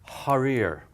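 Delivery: "Harir" with a breathy Arabic hard h; tight-throated, aspirated h opening "Harir". Shown as a demonstration. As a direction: blast air on the first sound of "Harir". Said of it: "you hear the air coming out".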